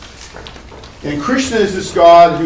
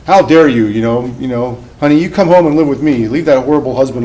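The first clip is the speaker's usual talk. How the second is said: angry mother-in-law; 3 dB louder than usual. Retold or imitated. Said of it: "the mother-in-law comes in".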